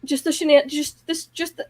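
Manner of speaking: stumbling over words, mouth full; tripping on the words; tongue-tied. Real, not acted. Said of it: "I can't even talk right".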